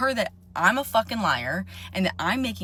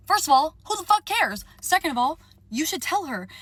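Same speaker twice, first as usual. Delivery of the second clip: high, loud exasperated rant; furious outburst; 9 semitones higher, 4 dB louder than usual. Real, not acted. Venting to viewers about the silent friend, furious outburst. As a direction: blow up in disbelief at the friend.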